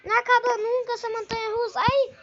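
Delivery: loud thrilled ride shouts; on a roller coaster. Real, not acted. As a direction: yell through the ride.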